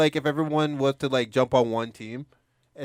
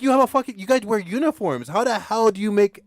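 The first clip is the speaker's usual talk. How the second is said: incredulous questioning; 7 semitones higher than usual. Retold or imitated. Imagined challenge to uniformed girls.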